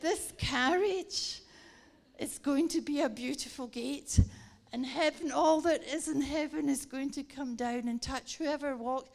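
loud, building rallying declaration; excited proclamation. Retold or imitated. Preacher to her colleague on the train, excited proclamation. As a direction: proclaim it with a punchy, emphatic burst.

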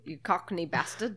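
giggly put-on British insult; mock British accent. Brit insulting a Cockney, laughing mock British accent. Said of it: "try to talk in British accents".

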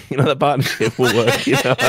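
Momo impression breaking into laughter; mock Momo, giggling through it; laughing Momo voice. Mocking Momo to the hosts, laughing through the voice. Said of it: "done that voice for Momo".

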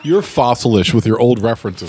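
teasing through laughter; laughing. Real, not acted. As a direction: laugh while you tease.

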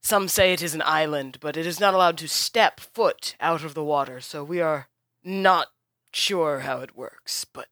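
smooth over the quarrel before explaining; placating host. Acted. Host interrupts arguing heroes to explain the war, lightly voiced.

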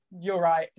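a sheepish laugh through the words. Retold or imitated. Customer admitting his fault, laughing it off. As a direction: concede it while chuckling.

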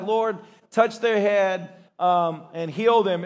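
slow, routine prayer; a lightly mocked slow dutiful prayer; rote prayer. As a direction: pray it by the numbers. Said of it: "it's not the time when".

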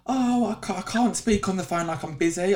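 high, whiny-style imitation; high-pitched mocking impersonation; mock excuse. Mimics an excuse for not phoning.

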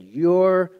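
slow, drawn-out, high and loud; son's angry retort. Retold or imitated. Son snapping at his dad, drawn-out high angry voice. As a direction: hurl it back at dad. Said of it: "He said".

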